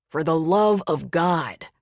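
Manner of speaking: slow, irritated snap; snapped. Acted. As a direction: bite it off in exasperation. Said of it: "he snapped".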